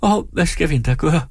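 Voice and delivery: high-pitched, helpless lament; wailing. A narrator's reading. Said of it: "jamrede hun". (højt, hjælpeløst jamrende)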